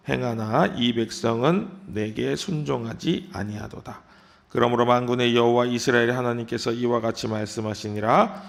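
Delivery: measured, solemn reading of the scripture. Acted. Reads scripture passage aloud.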